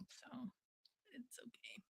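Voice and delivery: it's okay breathed with no voice; a private, voiceless reassurance; whispered. Real, not acted. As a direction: drop to a bare whisper. Trails into a whisper.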